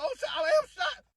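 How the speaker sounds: high-pitched comic realization of doom; mock panic. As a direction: re-enact a panicked discovery, very high. Retold panic at being shot.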